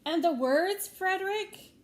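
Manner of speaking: hopeful mice calling out; eager question. Acted. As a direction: mice eagerly beg Frederick for words.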